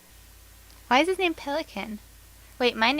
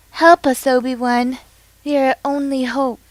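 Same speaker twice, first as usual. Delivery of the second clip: lightly voiced Leia, louder plea; Princess Leia; 8 dB louder than usual. Pretending to be Princess Leia pleading to Obi-Wan, lightly voiced. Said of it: "I'm Princess Leia".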